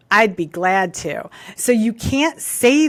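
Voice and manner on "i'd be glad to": slow, deliberately agreeable answer; drawn-out, willing reply; positive tone. Acted. Daughter answering mom after being corrected, mildly positive tone. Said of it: "it's a positive tone".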